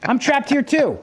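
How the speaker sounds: retold exasperation at being stuck; exasperated venting. Fed-up husband complaining to his wife, exasperated.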